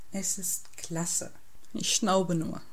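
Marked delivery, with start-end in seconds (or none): 0.1-1.3 soft, slow, lovestruck murmur; quietly dreamy, words drawn out. A narrator's reading. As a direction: savour it slowly and quietly. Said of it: "Felix seufzt verträumt".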